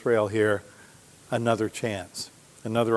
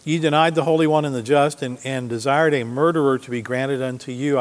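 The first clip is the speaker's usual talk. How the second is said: a raised, declaiming Bible reading; scripture reading. Acted. Preacher reading Peter's words to the congregation, declaiming. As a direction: proclaim the verse to the congregation.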